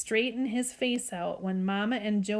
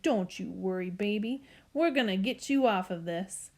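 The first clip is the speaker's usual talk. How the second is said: put-on shaky Southern accent. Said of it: "her voice was so shaky and southern".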